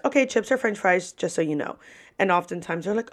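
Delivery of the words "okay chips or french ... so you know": quick disclaimer. Retold or imitated. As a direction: rattle off a quick heads-up. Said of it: "I just say it really fast".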